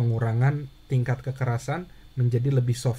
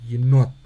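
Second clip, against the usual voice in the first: Yenot with not louder and longer, yi reduced; stress on not; 8 dB louder than usual. Shown as a demonstration. Teacher drilling the stressed second syllable, stress on not. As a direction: hit not in Yenot hard and long. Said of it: "notnya lebih ditekan, lebih keras, lebih panjang".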